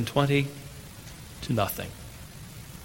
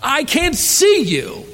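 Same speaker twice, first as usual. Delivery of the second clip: put-on frightened child; 13 semitones higher, 4 dB louder, slower than usual. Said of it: "cried out in fear".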